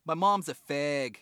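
put-on drawn-out kid's line in a botched Boston accent. Podcaster retelling a Cops episode's little kid, botched Boston accent. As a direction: attempt a Boston kid, landing nearer Minnesota. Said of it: "you sound like you're from Minnesota and not Boston".

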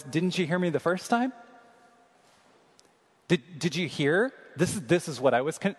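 needling, exasperated retort to God; sarcastic. Retold or imitated. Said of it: "he's being sarcastic".

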